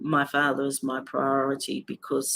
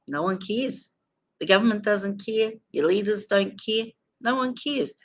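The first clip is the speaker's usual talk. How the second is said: pained; 6 semitones higher than usual. Real, not acted. Grieving, bitter about nephew's death.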